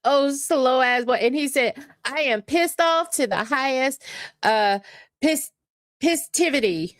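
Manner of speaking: high-pitched, giggly retelling of a rant; amused quoting. Retold or imitated. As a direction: imitate the rant while tickled by it. Quotes clip while tickled by it.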